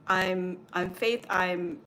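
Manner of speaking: halting, flustered stammer; retold stammer when the voice asks again; stuttering. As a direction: trip over your own name. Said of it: "and I stuttered".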